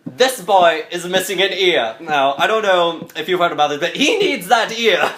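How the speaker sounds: lightly voiced scolding French cook; a hint of an indignant chef; angry French lady chef. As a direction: lay down the demand, rising at the end. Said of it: "angry French lady chef voice".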